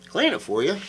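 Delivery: "Clean it for you?" echoed high and incredulous, rising on "you"; mock disbelief. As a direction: throw "Clean it for you?" back in mock shock, pitch up. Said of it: "And I'm like".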